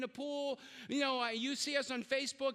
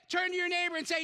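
rallying call; 4 semitones higher, 4 dB louder, faster than usual. Real, not acted. Preacher rallying congregation.

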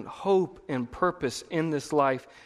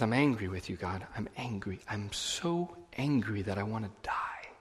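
bitter despairing Jonah; 4 semitones lower, 7 dB quieter than usual. Retold or imitated. Preacher voicing Jonah's angry prayer.

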